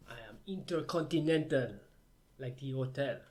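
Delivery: hammy bad French accent; mock French accent, proud. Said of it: "you just sound like bad French".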